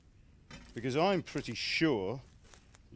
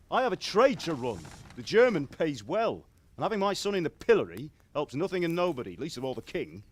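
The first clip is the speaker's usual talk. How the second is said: raised, louder father's rebuke, pressing each point; stern scolding; 3 semitones higher, 4 dB louder than usual. Acted. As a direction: lay into him like an angry father. Father scolding son over prank.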